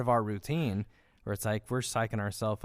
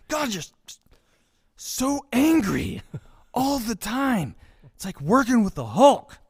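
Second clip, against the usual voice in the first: exasperated shout; 11 semitones higher, 7 dB louder than usual. Retold or imitated. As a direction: whine it in exasperation. Quoting exasperated movie line.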